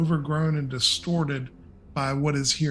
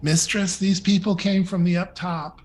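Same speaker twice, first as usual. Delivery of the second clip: lightly voiced goblin, pitched up; a hint of goblin, higher and eager to report; 4 semitones higher, 4 dB louder than usual. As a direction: announce visitors as a goblin servant. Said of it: "the goblin comes forth and she goes".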